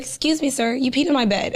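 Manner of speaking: gently polite wake-up, not angry; calm and polite, not scolding; nice, not angry. Retold or imitated. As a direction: tell him kindly, with no anger. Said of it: "I didn't say it angrily".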